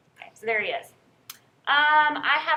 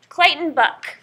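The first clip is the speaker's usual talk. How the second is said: calling roll; 4 semitones higher, 6 dB louder, slower than usual. Real, not acted.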